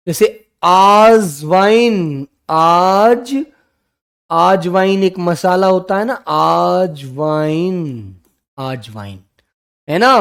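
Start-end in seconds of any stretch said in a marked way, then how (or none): 0.6-2.3 आजवाइन with a long aa at the start; wrong long aa. Shown as a demonstration. Teacher demonstrating the wrong spelling sound, long आ. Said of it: "अजवाइन को आजवाइन बोलते हैं". 6.3-9.2 आजवाइन said very slowly with a long aa; slow drawn-out wrong form. Shown as a demonstration. Teacher showing the mistaken pronunciation slowly, long आ. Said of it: "अजवाइन को आजवाइन बोलते हैं".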